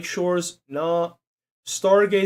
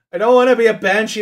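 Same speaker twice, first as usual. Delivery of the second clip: indignant protest; 5 semitones higher, 7 dB louder, faster than usual. Real, not acted. Rejects quiz result to chat.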